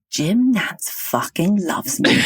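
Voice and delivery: slow, drawn-out retold boast; retold gushing boast. Friend calls to brag about Jim Nantz, drawn-out. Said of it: "she called me and she goes".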